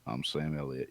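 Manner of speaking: low, soft impression; Sam Elliott. Actor who just plays himself, low quiet impression. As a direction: drop the pitch, keep it quiet. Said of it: "he's just like".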